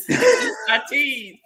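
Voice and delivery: Isatis drawn out slowly, high, as "ee-sah-TEEEZ"; naive mispronunciation. Retold or imitated. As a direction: stretch Isatis into a long "teez", through laughter. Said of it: "And I would call it".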